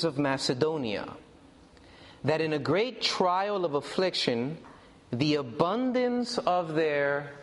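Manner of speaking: scripture reading. Acted. Reads scripture to congregation.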